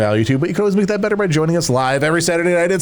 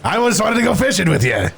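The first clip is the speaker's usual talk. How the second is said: put-on a touch of wistful old man; lightly voiced grandpa; 4 semitones higher than usual. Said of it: "old man voice".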